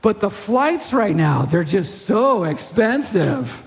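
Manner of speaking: a hint of a deflating, slowed complaint; mock downer. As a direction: rain on their parade, slowly. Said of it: "they're like".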